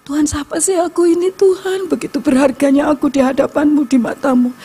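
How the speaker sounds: high, pleading cry to God; retold tearful prayer. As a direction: plead upward, overwhelmed with gratitude.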